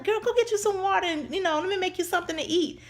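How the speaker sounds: put-on high-pitched grandmother voice, fussing over a child; imitated grandmother. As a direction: tend to the child in a high granny voice. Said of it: "she was like".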